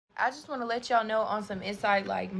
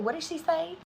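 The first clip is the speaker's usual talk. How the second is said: shocked question; 8 semitones higher than usual. Retold or imitated. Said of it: "I said".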